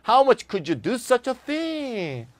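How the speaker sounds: slow, stressing how; reproachful question. Shown as a demonstration. Teacher demonstrating reproach in an example. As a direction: reproach them. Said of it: "자기 쓰고 싶은 대로".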